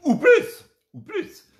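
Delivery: very high squeal; high mock-pleading "ou plus"; squeaky tease. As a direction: squeak it out teasingly. Teasing viewers for more stars.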